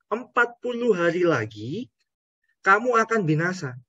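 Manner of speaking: lightly voiced sulky prophet; a hint of an indignant Jonah; Jonah complaining. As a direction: speak as a grumbling Jonah.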